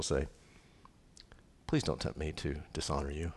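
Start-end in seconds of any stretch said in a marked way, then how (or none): 1.7-3.3 loving wife. Retold or imitated. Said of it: "in her loving, respectful, amazing, awesome, perfect wife sort of a way".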